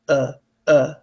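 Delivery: short low UH, UH with a slack mouth; lazy schwa. Shown as a demonstration. Teacher showing the unstressed part, lazy UH. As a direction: say UH without moving the mouth. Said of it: "or the lazy part".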